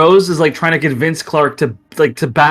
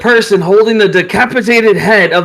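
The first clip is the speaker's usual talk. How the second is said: raised, grim ringmaster voice; arena announcer; 5 semitones higher than usual. Acted. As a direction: announce the deadly rule to the crowd. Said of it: "he says".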